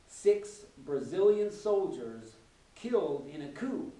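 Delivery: slow, measured mock headline read. Man on a train reading the foreign affairs section, slow headline reading. Reads newspaper headline aloud, later echoed.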